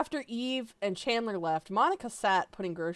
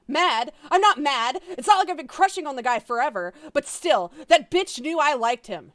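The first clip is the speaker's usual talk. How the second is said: higher, louder, fast heated denial; indignant Monica; 7 semitones higher, 9 dB louder than usual. Acted. Monica denying she is mad, heated. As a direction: huff it out like an offended friend. Monica's angry outburst read aloud.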